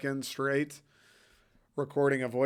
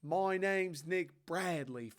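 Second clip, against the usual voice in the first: exaggerated Philly accent, higher pitched; 4 semitones higher, slower than usual. Shown as a demonstration. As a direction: put on a drawn-out Philly accent. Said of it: "man, my Philly accent".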